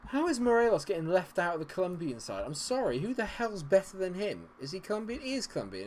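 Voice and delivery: high, indignant questioning; incredulous outrage. Real, not acted. Gamer objecting to Morelos being left out, high incredulous outrage. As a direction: protest in baffled indignation.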